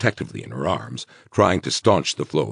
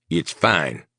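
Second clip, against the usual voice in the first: cold. Acted. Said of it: "Guthrie said coldly".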